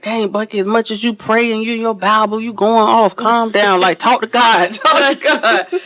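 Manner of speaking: voicing the roommate, ending in a laugh; imitating bunkie, pleading. Bunkie telling the angry speaker to talk to God. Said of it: "She was like".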